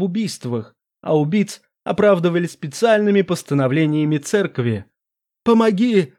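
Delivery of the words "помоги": crying out for help. Acted. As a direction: scream for help again, drowning. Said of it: "снова крикнул лорд Даркулан".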